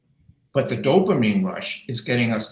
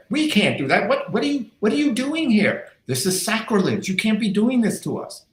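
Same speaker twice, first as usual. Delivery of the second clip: high, whining protest voice; mock staff protesting the email ban, high whine; whiny staff; 11 semitones higher than usual. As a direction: plead like a put-upon employee. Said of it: "They went".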